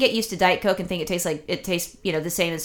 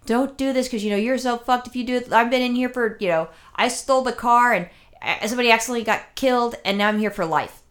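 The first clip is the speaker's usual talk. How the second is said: lightly voiced lifer, pitched higher; acted cautionary plea, higher than usual; inmate warning youngster; 4 semitones higher than usual. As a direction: imitate a convict urgently warning a younger person. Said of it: "that person will talk to me 'cause I'm a younger person".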